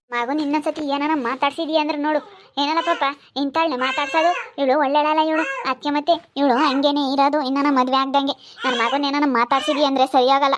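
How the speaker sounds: put-on mother-in-law loudly scolding the girl; angry scolding. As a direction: warn her off your son, loudly.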